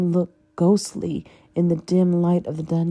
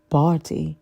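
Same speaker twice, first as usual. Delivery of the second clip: icy; 3 dB louder than usual. Acted. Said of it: "his voice like ice".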